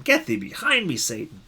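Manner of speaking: thundering pulpit rebuke; dramatic reading. Shown as a demonstration. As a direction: declaim it like a stage rebuke. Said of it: "we may read it dramatically".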